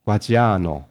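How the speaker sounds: "Gaggiano" stressed on the long "a" before "no"; "Gaggiano" with its later middle syllable drawn out; stress towards the end. Shown as a demonstration. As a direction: put the weight late in "Gaggiano". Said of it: "他们的重音会中后段放在".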